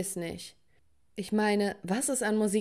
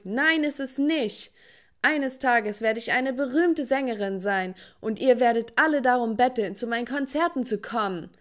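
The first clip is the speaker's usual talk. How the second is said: shouting back; 3 semitones higher than usual. Acted. Daughter yells back at her family about fame, defiant shout. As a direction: fight back at the whole family. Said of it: "schrie zurück".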